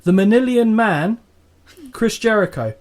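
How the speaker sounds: loud, high promo-style shout; imitating Taz. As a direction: bark it like a wrestler's promo. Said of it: "quote him word for word".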